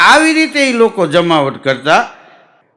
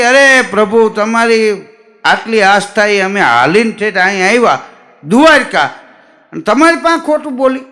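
louder and higher, rushing faster at the end; indignant pleading; 3 semitones higher, 4 dB louder than usual. Acted. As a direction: protest to the Lord, wounded and worked up. Pilgrim protests to the god. (પ્રભુ સામે ઉશ્કેરાઈને ફરિયાદ)

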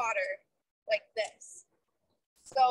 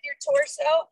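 hoarse marathon cheering; 11 semitones higher, 4 dB louder, slower than usual. Real, not acted. Coach cheering during interval.

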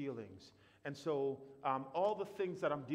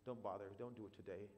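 softer, listless don't bother; depressed inner voice; 5 semitones lower, 8 dB quieter than usual. Retold or imitated. Script in a depressed head telling him to stay in bed, listless. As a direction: let the words sag with no energy.

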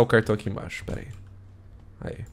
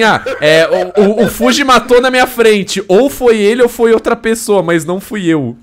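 loud mocking quote; 9 semitones higher, 9 dB louder than usual. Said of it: "você falou assim".

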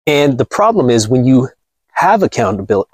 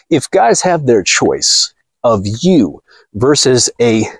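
usual speaking voice

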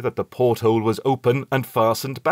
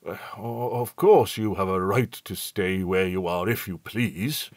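petulant. A narrator's reading. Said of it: "he replied rather petulantly".

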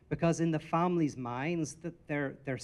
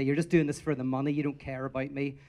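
mock shout at analyst; 4 dB louder than usual. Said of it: "you shout at them".

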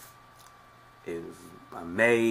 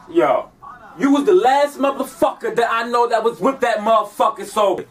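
fed-up anger; 5 semitones higher than usual. Acted. Snapping at a pushy caller.

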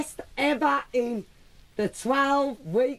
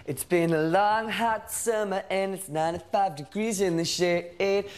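movie trailer voice; 6 semitones lower than usual. Acted. Dramatic trailer-style opening line.

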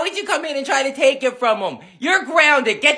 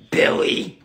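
whisper. Acted. Whispered menace.

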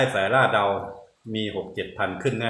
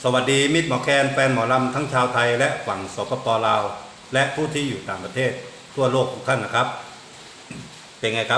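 bright, louder show-host opening; announcer greeting; 3 semitones higher, 3 dB louder than usual. Acted. Vlogger greeting mor lam fans, upbeat announcer voice. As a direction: welcome the fans like a radio host.

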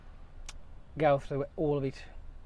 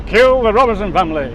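robot voice; 8 dB louder, faster than usual. Pretend. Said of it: "the robot off Lost in Space".

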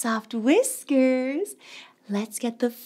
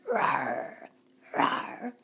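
bear growl; 14 semitones lower, 8 dB quieter than usual. Pretend.

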